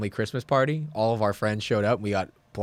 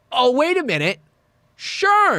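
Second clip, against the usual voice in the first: much higher, loud dawning recognition; sudden realization; 5 dB louder, slower than usual. Retold or imitated. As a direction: pitch it way up as it finally clicks.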